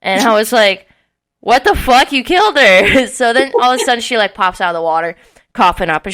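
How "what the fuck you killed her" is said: louder, higher disbelieving outcry; retold shock. Hearing that Malcolm pushed her in, retold shocked outcry. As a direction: act out an alarmed accusation, mildly.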